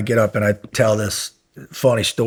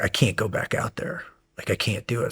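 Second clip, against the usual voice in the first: broken whisper; 7 dB quieter than usual. Retold or imitated. Broken by freezing surf.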